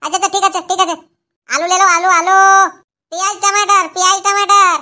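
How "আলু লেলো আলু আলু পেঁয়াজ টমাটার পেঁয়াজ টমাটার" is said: hawker's call. Acted. Vendor calling out wares.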